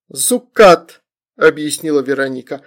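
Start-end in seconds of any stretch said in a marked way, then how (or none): 0.1-1.0 put-on high, loud baby talk; toddler. A narrator's reading. Toddler explains the summoning, childish voice. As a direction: chirp it as a tiny child.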